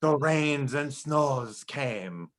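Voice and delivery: put-on heavy Eastern European storyteller accent; hammed-up Hungarian storyteller voice; Magyar accent. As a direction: tell a grim folk tale in a thick Hungarian accent. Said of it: "you have to say Magyar".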